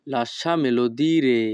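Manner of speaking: each Italian word spoken slowly and clearly; teacher modelling Italian for learners, very slow; slow demo. Shown as a demonstration. Bengali teacher models Italian phrase for students, slow and careful. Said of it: "তখন আমাদেরকে বলতে হবে".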